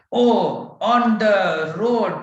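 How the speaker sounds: high and loud, slowing on the road; mock alarm at a snake on the road; startled at a snake. Shown as a demonstration. Demonstrating a walker who spots a snake, mock alarm. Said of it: "you see a snake, then immediately you say".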